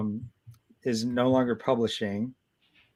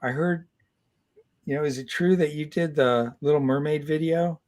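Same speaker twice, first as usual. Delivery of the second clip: put-on hesitant shy kid; 5 semitones higher than usual. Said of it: "he was very hesitant, very shy".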